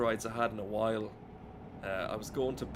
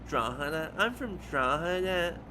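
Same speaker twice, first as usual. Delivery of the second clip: ape two Dublin mothers doing a bad accent; mocking Dublin accent; 5 semitones higher, 4 dB louder than usual. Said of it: "So they were like".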